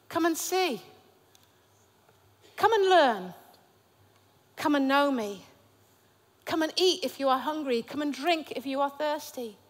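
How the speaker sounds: gentle, quiet invitation; inviting them in softly; a soft, tender call to come. Retold or imitated. Jesus' invitations, soft and slow.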